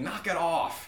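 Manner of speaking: lightly voiced fed-up deity; annoyed God. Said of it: "he's kind of annoyed by us".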